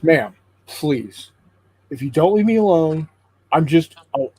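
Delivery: a bear losing patience, raising his voice; mild threat. Acted. Bear threatens pestering woman.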